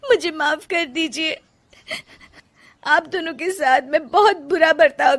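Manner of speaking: tearful apology. Acted. Rajni asking husband and mother-in-law for forgiveness, tearful. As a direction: apologise through the tears.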